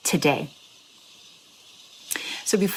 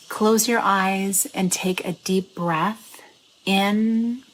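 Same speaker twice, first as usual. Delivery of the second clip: guided meditation. Acted. Host guides listeners to close eyes and breathe, meditation voice. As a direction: draw out the words to pace the breath.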